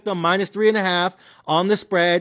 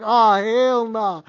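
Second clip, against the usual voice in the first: disbelief; 3 semitones higher, much slower than usual. Retold or imitated. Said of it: "I was like".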